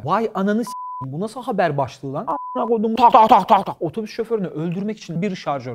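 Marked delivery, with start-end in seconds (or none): 3.0-3.8 sharp loud "tak" gunfire sounds; rapid mock machine-gun fire; imitated gunshots. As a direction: spit out loud gunshot noises.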